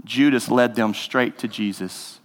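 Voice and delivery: gentle storybook reading, unhurried; reading a children's story. Acted. Pastor reading the Jesus Storybook Bible to the congregation, storytelling. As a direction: read it like a bedtime story.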